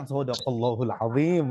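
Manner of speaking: a lightly voiced Arab, intoning the phrase in mock piety; teasing Arab reciter. Teacher mimicking Arabs who tease formal speakers, mock solemn. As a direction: tease like an Egyptian intoning scripture. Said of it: "orang Arab bilang".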